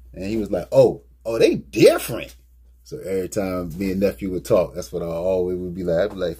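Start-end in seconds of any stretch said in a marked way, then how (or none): 0.7-2.4 mock deep impressed voice. A passer-by praising the shoes, a loud mock deep voice. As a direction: play the guy's deep admiring tone. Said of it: "he had a deep voice".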